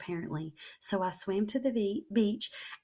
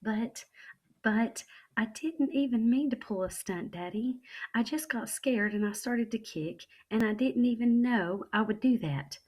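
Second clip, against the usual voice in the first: put-on teary child; 5 semitones higher, 3 dB louder than usual. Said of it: "my eyes got tears in them".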